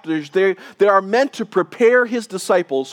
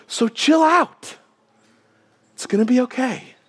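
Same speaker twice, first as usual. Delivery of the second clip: laid-back pastor voicing Jesus, easygoing; casual chill out; 5 semitones higher than usual. Jesus voiced casually reassuring.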